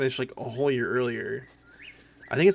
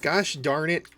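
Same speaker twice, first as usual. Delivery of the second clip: mock Minnesotan rant; 4 semitones higher, slower than usual. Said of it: "and I'm like".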